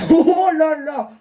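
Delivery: loud high slow laughing oh là là; laughing exclamation. Real, not acted.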